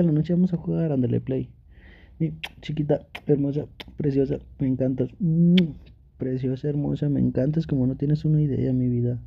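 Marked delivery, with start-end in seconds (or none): 2.2-9.2 dote on her gently; tender sweet talk. Acted.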